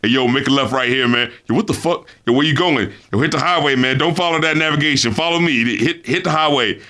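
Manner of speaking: lightly imitated offhand chat with a driver; talking to driver. Host imitating a rapper directing his driver, offhand talk. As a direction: toss off directions casually, low pitch. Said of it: "sounds like he's just talking to his, like, driver".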